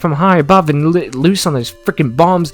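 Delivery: high, energetic run-on rattle; excited listing. Real, not acted. Gamer lists ways to beat a camp, high excited rattle. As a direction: pile up options with rising excitement. Piling up combat options breathlessly.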